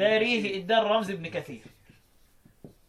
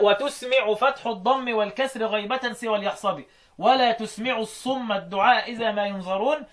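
slow chanted verse and Quran reading; teacher's recitation. Shown as a demonstration. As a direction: intone each line slowly. Recites verse then Quran line.

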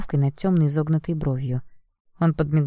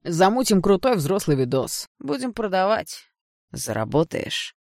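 smug mocking lad; 4 semitones higher, slower than usual. Friend mocks, filming the girl.

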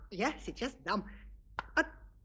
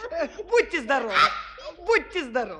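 mock blessing; 2 semitones higher, faster than usual. Espen blessing her sneezes.

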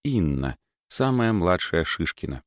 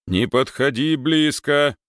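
urgent warning, higher; 7 semitones higher, 3 dB louder, slower than usual. Acted. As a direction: hold her back firmly. Warning her back.

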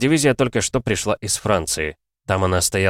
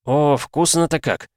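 high, drawn-out delighted exclamation; crying out; 8 semitones higher, slower than usual. A narrator's reading. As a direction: call out in slow, savouring delight. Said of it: "Кричит".

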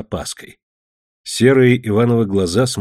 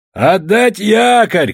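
slow, loud, drawn-out command; captain shouting to the crew; shouted order; 10 semitones higher, 5 dB louder, much slower than usual. A narrator's reading. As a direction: call it across the deck, higher. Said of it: "крикнул капитан".

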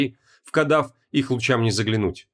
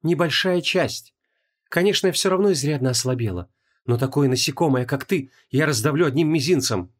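cold; 3 semitones higher than usual. Acted. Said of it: "холодно ответила Инанна".

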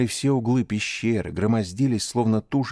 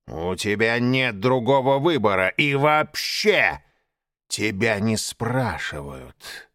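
menacing growl; slower than usual. Acted. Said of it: "грозно прорычал Багира".

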